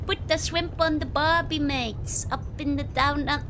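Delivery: badly faked Australian accent; failed Aussie accent. Dutch streamer trying to pass as Aussie, badly faked Australian accent. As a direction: attempt a clumsy Aussie accent. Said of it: "can't even try doing an Aussie accent".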